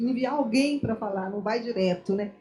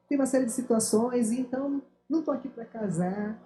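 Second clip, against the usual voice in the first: sweet, gentle. Retold or imitated. Woman recalling how she turned down her suitor, sweetly gentle. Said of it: "com umas palavras bem doces".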